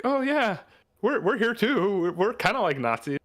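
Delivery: hammed-up eager Klansman; mock KKK member. Klansman begging Nazis to accept him, high and hammy. KKK voiced in game retelling.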